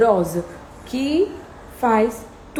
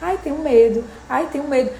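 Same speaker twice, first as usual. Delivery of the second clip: mock fearful whine; 4 semitones higher than usual. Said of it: "se abraça com medo, fica ali".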